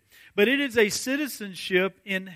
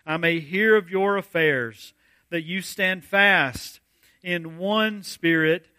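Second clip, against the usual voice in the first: scripture reading. Acted. Continues reading verse twenty-seven.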